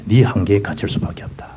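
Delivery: breathy whispered conclusion. Acted. Preacher concluding the banner's meaning, whispered. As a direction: drop to a whisper.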